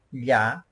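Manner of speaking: ya said as "lya", palatal L; Quechua LL. Shown as a demonstration. Teacher showing a letter English lacks, ya said as "lya". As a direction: say ya with an L melting into Y, "lya". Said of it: "You pronounce".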